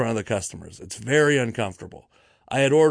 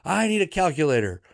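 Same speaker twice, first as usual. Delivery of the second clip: raised-pitch mock yell of an old boss; 5 semitones higher, faster than usual. Old boss demanding help from her staff, mock yelling. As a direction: call it out high, imitating a yelling lady. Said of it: "this old lady is yelling".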